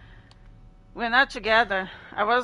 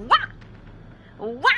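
short sudden barked "wah"; quick mock dog bark; imitated dog bark; 4 semitones higher than usual. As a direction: imitate a dog's yap. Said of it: "He was saying".

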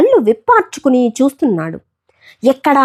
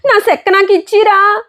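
crying plea; 10 semitones higher than usual. Acted. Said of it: "ఏడుస్తున్నాడు".

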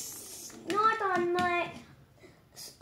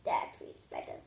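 voiceless, much softer relieved whisper; whispered relief; 11 dB quieter than usual. Pretend. Cooled pretend Iron Man sighs to himself, soft whisper. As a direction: breathe it out softly, relieved. Cooling down in play.

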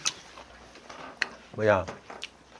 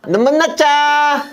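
slow, higher drawn-out cheer; toast call; 10 semitones higher, slower than usual. Shown as a demonstration. Host demonstrating his toast to guests, toast call.

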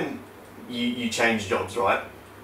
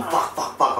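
whispered, panicky "Fuck, fuck, fuck"; panicked whisper; 3 semitones higher than usual. Retold or imitated. On the plane before the jump, a whispered panic. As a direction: breathe the curses in rising panic. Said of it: "I'm panicking".

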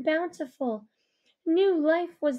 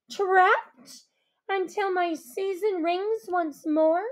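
higher, aggrieved lament; resentful trapped queen; bitter fairy queen; 3 semitones higher than usual. Acted. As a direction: pour out the grievance.

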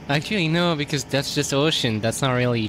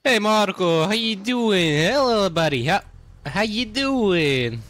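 put-on baby talk to dog; 6 semitones higher than usual. Greeting the chihuahua Marco.

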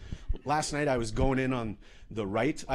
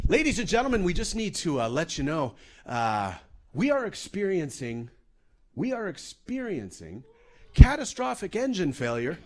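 imitating a casual cabin announcement; hesitant lead-in, then drop the bad news casually; casual captain; 5 semitones higher, 3 dB louder than usual. Captain telling passengers of engine failure, mock-casual announcement. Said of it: "that was casual".

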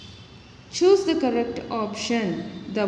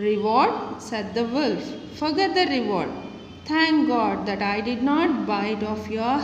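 story reading. Acted. Teacher reading a fable to her class, clear storytelling voice. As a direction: read the fable out to the children.

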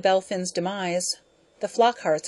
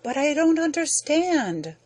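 wept; 9 semitones higher than usual. Acted. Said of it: "Ludovick wept".

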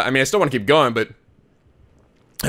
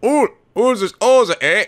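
higher-pitched Canadian attempt; Canadian accent; 4 semitones higher than usual. Shown as a demonstration. Player retrying a character voice, high Canadian accent attempt. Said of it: "I don't think I can do a Canadian accent".

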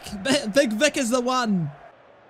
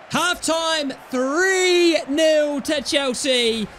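gloating shout; 4 dB louder, much slower than usual. Real, not acted. Halftime gloat.

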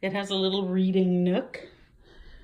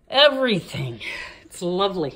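breathless after the stairs; winded, short of air; out of breath. Real, not acted. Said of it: "I'm running out of breath".

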